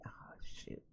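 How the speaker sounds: whispered, deflated reaction; sinking realization. Retold or imitated. Reacting to friend's Mercury retrograde reminder, hushed dismay. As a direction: let it out under your breath.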